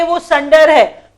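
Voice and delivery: संडर said slowly, with an a sound, not सुंदर; careful pronunciation. Shown as a demonstration. Teacher correcting students: संडर slowly, not सुंदर. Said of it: "सुंदर मत पढ़िए".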